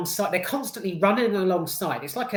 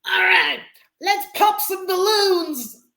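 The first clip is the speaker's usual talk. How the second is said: mocking a gung-ho action heroine, much higher and slower; Melissa McCarthy's character; 13 semitones higher, 7 dB louder, slower than usual. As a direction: ham up her cheesy one-liner. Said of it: "she was like".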